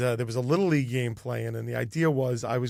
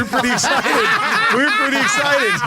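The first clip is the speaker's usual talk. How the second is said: laughing excitedly; 12 semitones higher, 7 dB louder than usual. Real, not acted. Recalling comedian saying yes.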